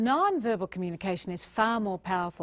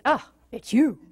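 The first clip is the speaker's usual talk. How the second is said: bored greeting; 5 dB louder than usual. Shown as a demonstration. Years in, greeting a partner with dull disappointment. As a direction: make it sound like a letdown. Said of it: "And eventually it's".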